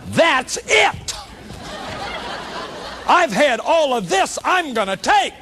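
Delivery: high-pitched mock yell, fed up; retold angry outburst. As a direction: burst out as if the sack just overflowed. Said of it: "they start screaming and hollering".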